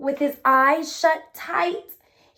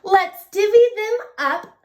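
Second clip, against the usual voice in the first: grinning badger; 5 semitones higher, 4 dB louder than usual. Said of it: "badger says with a grin".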